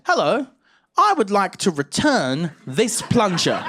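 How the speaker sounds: confident customer. Retold or imitated. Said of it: "and he said".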